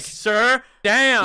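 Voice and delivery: mock outrage. Mocking teacher.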